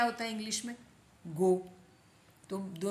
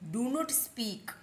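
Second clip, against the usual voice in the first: slow, stretched teaching phrase; slow model; 3 semitones higher, much slower than usual. Shown as a demonstration. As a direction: model it slowly for learners. Teacher slowly repeats for learners. (धीरे-धीरे बोलकर सिखाते हुए)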